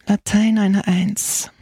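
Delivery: slow, mildly menacing; stern repetition. A narrator's reading. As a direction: drag it out with a stern edge. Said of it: "seine drohende Miene".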